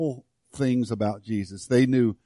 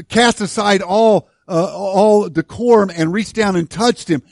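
emotional; 5 semitones higher, 5 dB louder than usual. Real, not acted. Preacher moved, crying heard.

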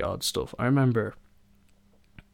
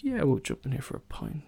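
carefree agreeing; 6 semitones higher than usual. Retold or imitated. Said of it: "they'll be like".

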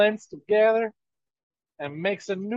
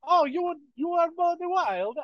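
a higher, lightly put-on Hispanic accent; the crowd answering in a drifting Hispanic accent; mock Hispanic accent; 9 semitones higher than usual. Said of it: "now it is a Hispanic accent".

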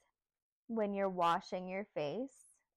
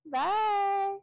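sing-song goodbye; 13 semitones higher, 6 dB louder than usual. Real, not acted. Cheery sign-off to viewers.

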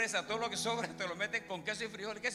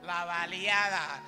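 much louder slow Honduran "La baleada"; shouting baleada; 10 dB louder, slower than usual. Acted. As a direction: bellow it slowly like a proud Honduran. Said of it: "de los hondureños".

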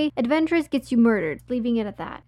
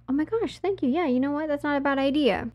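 high-pitched, imitated grateful acceptance; gushing gratitude; 5 semitones higher than usual. Woman accepting a room from stranger, gushing gratitude. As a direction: play her sweetly taken in, voice lifted high.

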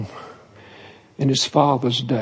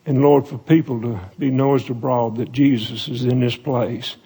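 prayer voice, calm and reverent; pastoral prayer. Acted. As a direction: pray it steadily over the congregation, unhurried. Pastor leads closing prayer.

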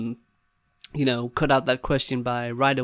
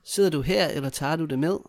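natural-speed question; 2 semitones higher, faster than usual. Shown as a demonstration. Third take, as assistant would ask.

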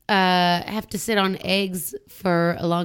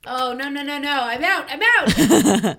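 praying mantis voice; 7 semitones higher, 4 dB louder, slower than usual. Pretend. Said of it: "It sounded like a, like an insect's mandibles".

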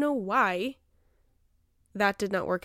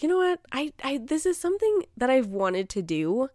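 mock resolve; 5 semitones higher than usual. Retold resolve.

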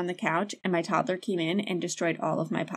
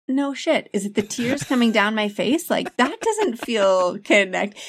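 sarcastic retort; 3 semitones higher, 4 dB louder than usual. Retold or imitated. Retelling exasperated retort to husband.

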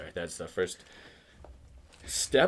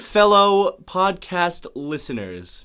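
mock formal; much slower than usual. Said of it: "Just be very formal".

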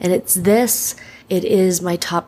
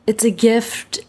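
whispered echo; 4 semitones higher than usual. Real, not acted. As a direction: repeat "It's a gift" in a whisper. Says it, then repeats it whispered.

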